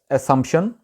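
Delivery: "اسمپشن" with "s": a-SUMP-shun; correct pronunciation. Shown as a demonstration. Teacher introduces the word assumption, correct pronunciation. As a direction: say "اسمپشن" with crisp "s". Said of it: "اس کا صحیح تلفظ ہے".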